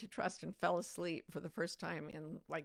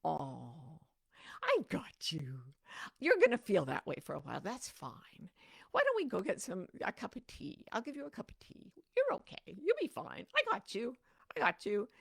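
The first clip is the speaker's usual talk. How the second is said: soothing self. Pretend. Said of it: "answering self-doubt".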